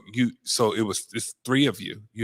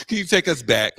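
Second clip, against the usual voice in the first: laughing; 6 semitones higher, 8 dB louder than usual. Real, not acted. Host laughing during question.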